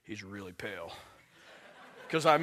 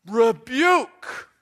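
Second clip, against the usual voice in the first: loud, higher, drawn-out single word; emphatic rebuke; 5 semitones higher, 9 dB louder than usual. Acted. Preacher revealing the next word, emphatic rebuke. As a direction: hurl the word out as a reproof.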